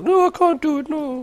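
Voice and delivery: very high, silly falsetto; mock whiny refusal. Guest asked for an accent, mock high-voiced refusal. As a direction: squeak it out in a put-on high voice.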